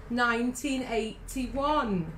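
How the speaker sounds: very slow, spelled-out delivery. Shown as a demonstration. Answering her co-host's question about the year, slowly. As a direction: draw each part of the year right out. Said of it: "I'll say it slowly".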